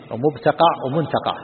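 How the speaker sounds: مبتقع as "mubtaqaʕ", then منتقع as "muntaqaʕ", measured; variant forms. Shown as a demonstration. Sheikh listing word variants, مبتقع with b, منتقع with n, slowly. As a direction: slowly sound out مبتقع with b, ومنتقع with n. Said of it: "بميم والنون والباء".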